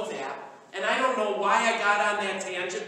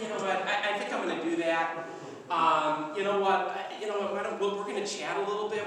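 mock spouse talk; 5 dB quieter than usual. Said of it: "go to your spouse and say".

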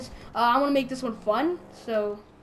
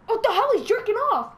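high, loud laughing disbelief; amused shock; 9 semitones higher, 4 dB louder than usual. Real, not acted. Player startled by game character, loud laughing shock. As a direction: blurt it out high, breaking into laughter.

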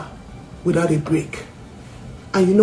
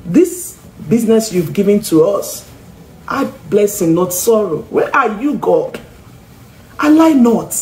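retold crying prayer; 3 semitones higher than usual. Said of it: "I cried, and I said".

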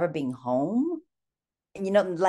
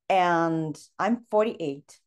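holding back tears; much slower than usual. Real, not acted. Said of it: "I'm gonna get emotional".

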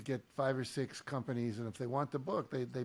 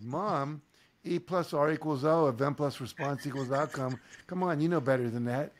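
put-on louder, insistent teen reprimand; scolding daughter; 6 dB louder than usual. Teen daughter reprimanding her complaining mom, louder and firm. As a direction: call her mom out firmly.

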